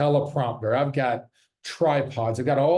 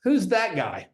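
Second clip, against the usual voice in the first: mock surprise; 8 semitones higher than usual. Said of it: "if those were at conference".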